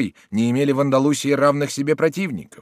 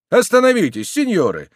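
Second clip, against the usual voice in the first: high, loud call to halt; crowd echoing; 8 semitones higher, 5 dB louder than usual. A narrator's reading. Bystanders repeating the plea to the duellists, high loud cry. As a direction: cry out high, then let it fall. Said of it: "повторили присутствовавшие".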